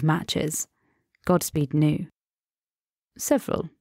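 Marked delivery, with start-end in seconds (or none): 3.2-3.7 lightly amused answer. Acted. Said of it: "his voice lace with amusement".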